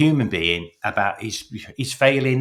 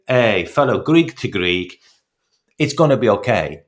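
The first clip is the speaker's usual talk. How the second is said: put-on Italian-sounding accent; 3 dB louder than usual. Club owner reassuring his Greek manager, in a mock Italian-sounding accent. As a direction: have a go at Greek, landing in mild Italian. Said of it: "saying that in an Italian accent".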